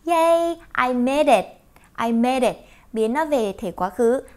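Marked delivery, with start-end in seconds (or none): 0.1-2.6 mock cheer. Shown as a demonstration. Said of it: "thì mình nói".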